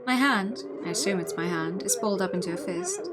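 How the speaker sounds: measured read-aloud of inner monologue; story narration. Acted. Player reads the hero's dreamlike inner monologue, story narration. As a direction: narrate it as the dazed protagonist.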